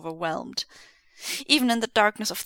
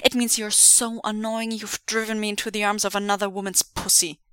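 deadpan. Acted. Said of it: "tundra flat".

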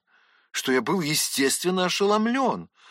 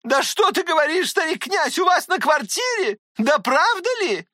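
high, breathless disbelieving questions; изумлённая тётка, высоко; astonished aunt; 14 semitones higher, 4 dB louder than usual. Acted. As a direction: press him in shock as the aunt.

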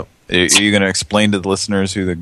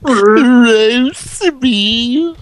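much higher, over-the-top ad pitch; excited announcer imitation; 5 dB louder than usual. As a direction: squeal it like a cheesy commercial guy. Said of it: "who talks like that?".

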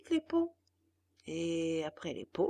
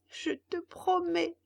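sobbing; 9 semitones higher, slower than usual. Acted. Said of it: "dit le pantin en sanglotant".

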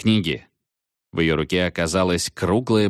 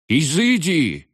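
much higher, slow shriek; 9 semitones higher, slower than usual. A narrator's reading. Veniamin shrieking at the witch in panic. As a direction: squeal it out in panic. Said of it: "взвизгнул Вениамин".

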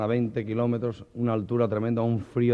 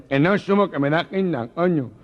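louder, higher nasal refusal; gangoso refusing; 6 semitones higher, 4 dB louder than usual. Acted. Gangoso refusing to ride the pasota's motorbike, loud and high. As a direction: dig in, stubbornly.

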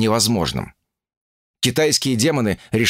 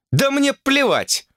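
higher, slow, losing her temper; screaming fit; slower than usual. Acted. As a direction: snaps into a yell. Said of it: "психанула блондинка, переходя на крик". (срывается на крик)

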